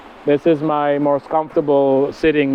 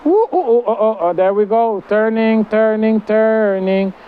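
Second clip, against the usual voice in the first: delighted squeals; 5 semitones higher than usual. Real, not acted. Hammock spins around her.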